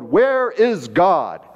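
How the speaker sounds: slow, drawn-out booming question; mock bellow. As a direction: bellow it out like a big minister. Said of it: "raised his voice even more ... bellowed".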